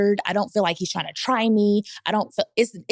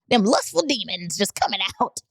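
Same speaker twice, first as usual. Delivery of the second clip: chuckling through the words; laughing; 2 semitones higher than usual. Real, not acted. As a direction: laugh as you finish the line. Laughing at own joke.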